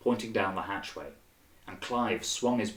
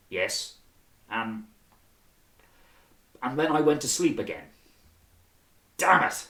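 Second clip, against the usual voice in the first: lightly voiced nervous corporal, a little higher; 5 semitones higher, 5 dB louder than usual. A narrator's reading. A hint of a nervous corporal reporting to lieutenants. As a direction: stammer out the report under the officers' eyes.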